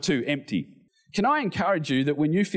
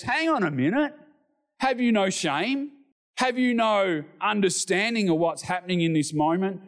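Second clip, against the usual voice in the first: higher, shocked scolding of the other man; indignant rebuke; 4 semitones higher than usual. Retold or imitated. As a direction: rebuke him, appalled. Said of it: "He says".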